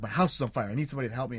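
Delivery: loud, urgent yell for help; panicked yell into the neighbors' house; retold yelling. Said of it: "and I start yelling".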